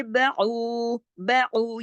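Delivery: बाऊ with a long, steady final oo; slow recitation demo of बाऊ; lengthened oo. Shown as a demonstration. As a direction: draw out the ऊ of बाऊ. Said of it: "आवाज को खींचने का काम कर रहा है".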